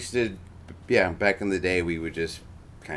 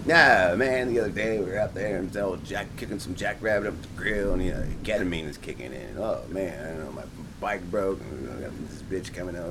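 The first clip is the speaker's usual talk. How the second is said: impression of Scotty Peterson. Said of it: "I can do Scotty Peterson".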